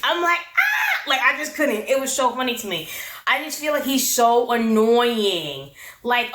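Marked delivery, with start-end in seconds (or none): 0.4-1.1 squealing high cackle; retold cackle, screeched high. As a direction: shriek it like a cackle. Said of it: "the way I was cackling".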